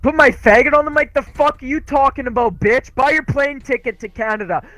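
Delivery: yelling. Real, not acted. Daring the other player to come fight him, angrily yelling. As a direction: challenge them to a fight, hard and aggressive. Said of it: "I don't know why you're yelling at me".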